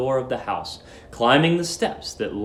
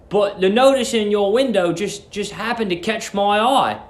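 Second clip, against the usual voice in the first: lightly voiced stammering Billy; 5 semitones higher than usual. Billy explaining.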